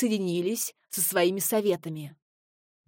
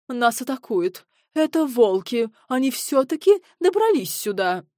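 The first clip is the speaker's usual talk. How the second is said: higher, louder panic cry; panicked; 4 semitones higher, 6 dB louder than usual. A narrator's reading. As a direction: alarm the guests about wolves. Panicked lord cries wolves. (в панике, громче)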